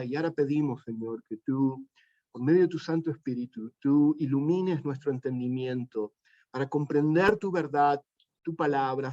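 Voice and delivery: calm, reverent prayer voice. Acted. Pastor praying with the congregation, reverent. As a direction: pray to the Father, unhurried.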